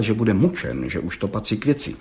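ordinary delivery, nothing marked

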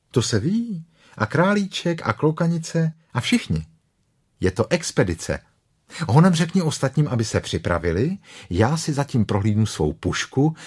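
a hint of a boy organising his friends; Christopher Robin, in charge. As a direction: give orders as a confident boy. Narrator voices Christopher Robin.

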